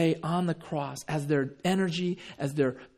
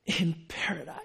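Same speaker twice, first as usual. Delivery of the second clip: pained effort; 4 dB quieter than usual. Acted. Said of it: "imagine the effort and the pain".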